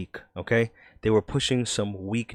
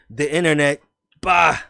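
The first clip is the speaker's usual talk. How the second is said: put-on New York accent; 2 semitones higher, 6 dB louder than usual. Reading a skeptic's headline aloud, New York accent. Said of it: "I'm gonna do a New York accent".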